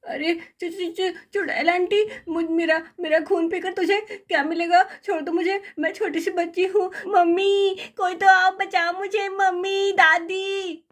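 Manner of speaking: put-on child begging the witch to let go; scared child pleading. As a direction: beg fast, then cry for help.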